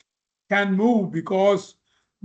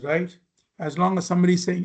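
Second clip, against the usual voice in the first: ordinary delivery, nothing marked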